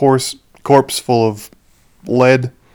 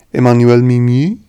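"Emmanuel Mimieux" said with French nasal vowels; French accent. Shown as a demonstration. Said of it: "I hope you like my French accent".

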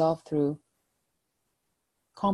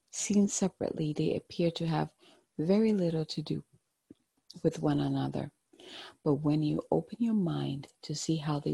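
gentle, hushed guided-meditation voice. Acted. Tarot card reading, meditative guidance.

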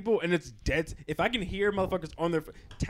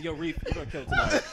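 bright, rising hype with a laugh; genuine hype compliment; 8 semitones higher than usual. Retold or imitated. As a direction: sell it like you mean it. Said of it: "when they acknowledge you".

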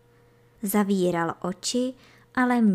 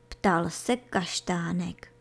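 ordinary delivery

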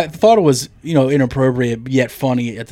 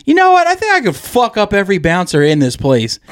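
put-on cocky drunk friend; 5 semitones higher than usual. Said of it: "your one friend is just like".

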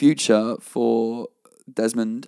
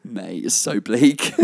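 laughing quote; much slower than usual. Retold or imitated. Quoting Miles, laughing.

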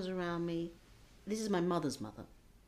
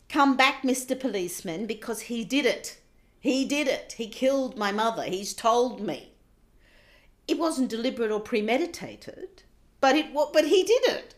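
loud, high desperate call; 5 semitones higher, 12 dB louder than usual. Retold or imitated. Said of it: "call out".

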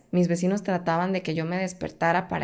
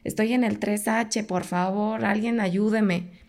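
retold cry for help; 3 semitones higher than usual. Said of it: "Yo empecé a gritarles a los vecinos".

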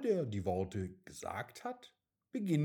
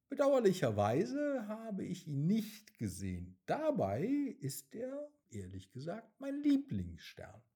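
sad; 9 semitones higher than usual. A narrator's reading. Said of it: "sagt die Frau Mond traurig".

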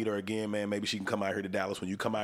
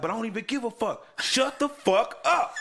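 retold angry shout; 12 semitones higher, 6 dB louder than usual. Host retelling his homie cussing out a loud crowd, shouting. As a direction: imitate a friend blowing up at a noisy crowd, loud and high.

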